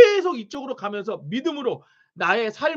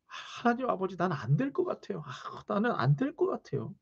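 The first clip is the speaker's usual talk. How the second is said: mock despairing prayer; 10 dB quieter than usual.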